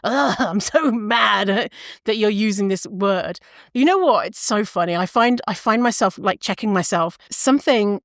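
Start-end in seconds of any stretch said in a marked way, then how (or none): 0.0-3.4 exasperated groan into a slowed mock rant; mock anger. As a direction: play up being mad, breaking into a laugh. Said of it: "and being mad".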